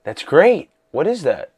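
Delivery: high, loud mock Toby, half-hearted; imitating Toby. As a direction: toss off a mock-excited fan reply. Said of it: "You had Toby saying".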